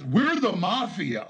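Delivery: slow sneering repeat of the boast; a slow, scornful echo of a lawyer's boast; mocking, slow. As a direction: drag it out to ridicule him. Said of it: "I love how there's".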